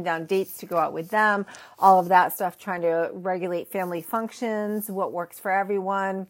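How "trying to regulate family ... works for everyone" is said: talking between sips of tea; words around a sip of hot tea; while sipping a drink. Real, not acted. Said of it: "I'm drinking my afternoon tea".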